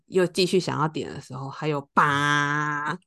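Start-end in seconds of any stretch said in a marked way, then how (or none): 1.5-3.0 imitated horn blast. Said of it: "这个喇叭声".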